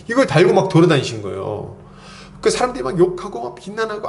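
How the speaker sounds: usual speaking voice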